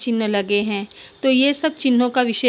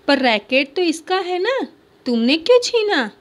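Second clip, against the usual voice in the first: higher, louder rebuke; mother scolding; 6 semitones higher, 3 dB louder than usual. Acted. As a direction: rebuke the boy for snatching. (माँ की ऊँची, तीखी फटकार)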